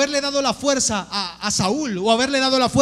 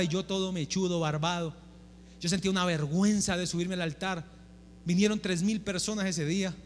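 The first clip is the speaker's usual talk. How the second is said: softer, sheepish recollection; hushed confession; 6 semitones lower, 8 dB quieter than usual. Retold or imitated. Pastor recalling his shame before three thousand people, soft and hushed. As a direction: drop the voice as if still embarrassed.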